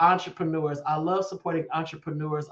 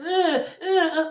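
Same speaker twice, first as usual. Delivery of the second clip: mock toddler grunts; 10 semitones higher than usual. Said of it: "keep pointing".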